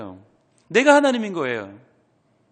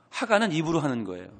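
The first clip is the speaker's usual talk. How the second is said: normal talking voice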